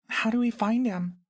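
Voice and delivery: put-on a small girl asking earnestly. A narrator's reading. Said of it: "asks Maya Lee".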